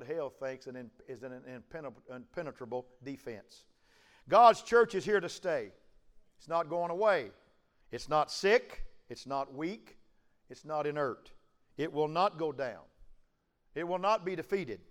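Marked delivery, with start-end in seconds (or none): 4.3-14.8 rising, forceful pulpit preaching. Acted. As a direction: preach it to the congregation.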